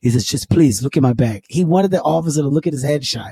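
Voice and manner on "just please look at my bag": imitated African-accented pleading. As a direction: lower African-accented plea. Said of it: "He put the accent on".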